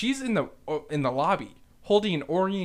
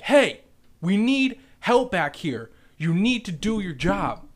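louder, insistent retold call for help; 3 semitones higher, 5 dB louder than usual. Manager demanding help in the back, calling out firmly.

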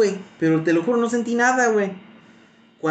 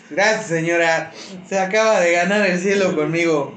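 mock grateful; 3 semitones higher than usual. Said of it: "Y yo así como de".

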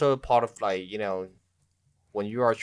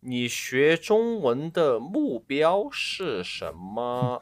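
put-on voice; 4 semitones higher, much slower than usual. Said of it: "I'll do it with my real voice".

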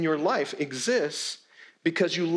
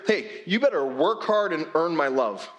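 mock demanding boss. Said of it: "it's not a matter of".

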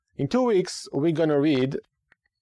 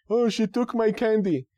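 mock whiny child; 8 semitones higher than usual. Child explains why crying.

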